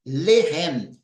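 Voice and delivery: Lehem with the weight on LE; stress first syllable. Shown as a demonstration. Teacher showing the stressed first syllable, clear. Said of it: "primeira sílaba é tônica".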